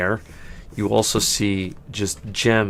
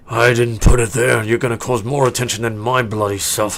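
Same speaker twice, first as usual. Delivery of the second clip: louder, defensive orc retort; indignant orc; 2 semitones higher, 6 dB louder than usual. Acted. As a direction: snap back at the player in the orc voice. Orc argues with a player.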